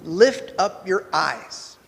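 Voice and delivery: grandfather advice. Retold or imitated. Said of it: "He looks at me and he goes".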